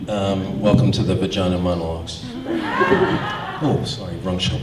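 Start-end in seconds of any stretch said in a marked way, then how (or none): 0.6-2.2 chuckling through the words; quick, amused delivery; laughing. Real, not acted. Laughs at his own joke. 2.3-3.6 breathy high laugh; airy laugh. Real, not acted. Laugh after the joke.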